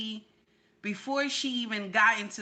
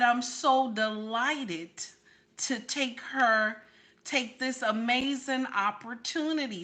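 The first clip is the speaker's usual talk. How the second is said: imitated proper interview voice. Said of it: "This is how she talked".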